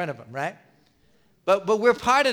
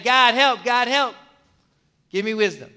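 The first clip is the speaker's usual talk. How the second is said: pleading prayer; 2 semitones higher, 4 dB louder than usual. Acted. Acts out desperate plea to God.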